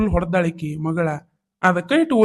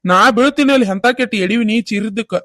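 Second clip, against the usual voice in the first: loud, alarmed questions; father-in-law running in at the scream; 4 dB louder than usual. Acted. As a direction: rush in worried.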